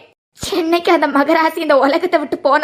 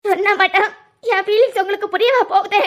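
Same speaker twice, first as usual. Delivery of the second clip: hurt, crying complaint; tearful. Acted. Niece-in-law answering the man who asks why she cries, tearful. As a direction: plead through tears. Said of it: "எதுக்கு அழுற".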